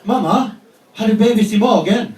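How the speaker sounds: imitating son. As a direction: ask it like an innocent kid. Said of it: "it goes like this".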